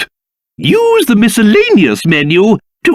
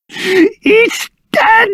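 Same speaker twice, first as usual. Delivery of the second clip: indignant rant; 7 semitones higher, slower than usual. Acted. King raging about the abbey.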